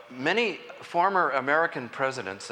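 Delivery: former given extra weight; stress on former. Shown as a demonstration. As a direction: lean into former. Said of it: "I emphasize the word former".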